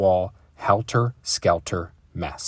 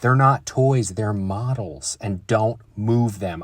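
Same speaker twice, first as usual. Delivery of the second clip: protesting; 4 dB louder, slower than usual. Acted. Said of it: "brother protested".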